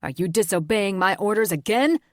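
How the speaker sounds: loud, furious demand at a subordinate; raging officer hollering at his captain; hollered. Acted. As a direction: yell it at the disobeying captain. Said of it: "he hollered".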